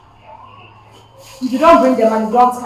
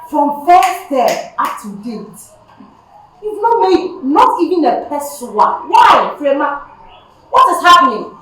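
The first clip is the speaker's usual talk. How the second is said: scolding teacher; 5 semitones higher, 4 dB louder, slower than usual. Acted. Teacher scolding pupil over fees.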